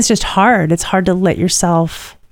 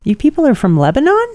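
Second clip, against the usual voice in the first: surprised server; 5 semitones higher than usual. Retold or imitated. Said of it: "she looks at me like".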